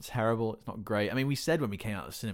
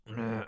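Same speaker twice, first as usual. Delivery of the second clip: short dismissive "meh" grunt; mock grunt. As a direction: grunt it out, imitating an indifferent father. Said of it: "he kinda grunts and goes".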